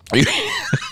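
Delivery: squealing laugh up high; high delighted laugh; high giggle. Real, not acted. Laughing at imagined scene.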